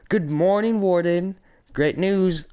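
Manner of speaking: mock cheer. Megamind cheerily greets the warden.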